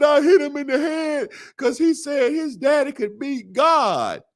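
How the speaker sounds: put-on high, indignant kid voice; little boy explaining. Little boy telling the mothers why he hit his friend, indignant. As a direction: defend yourself like a child.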